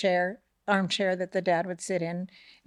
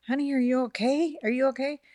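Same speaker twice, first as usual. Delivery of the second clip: higher, mildly alarmed retold voice; worried wife; 6 semitones higher than usual. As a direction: imitate a wife checking on her husband.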